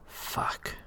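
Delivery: breathless whisper, no voice. Acted. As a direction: whisper it in a panic. Panicked man wakes in cell.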